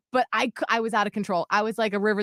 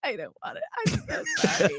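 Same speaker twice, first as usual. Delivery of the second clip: small soft voice rising to a squeak; whimpering child; 11 semitones higher, 4 dB quieter, faster than usual. Retold or imitated. Daughter apologising to crying mom, whimpering. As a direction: imitate a tearful child's apology.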